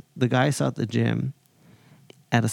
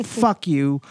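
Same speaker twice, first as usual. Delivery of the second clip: playful mock anger; 4 semitones higher, slower than usual. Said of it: "I'm mad, but in a playful way".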